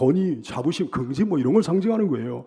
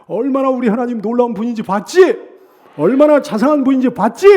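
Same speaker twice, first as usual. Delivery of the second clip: loud, high shout of vindication; exultant preacher's shout; triumphant boasting; 5 semitones higher, 7 dB louder than usual. Acted. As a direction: crow it at your enemies, building louder and higher. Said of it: "원수들을 향해서 그냥 입을 크게 여는 거지".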